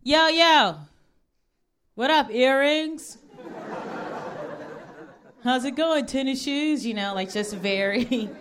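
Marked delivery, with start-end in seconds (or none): 0.0-6.9 catcalling guys. Retold or imitated. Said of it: "they'll be like".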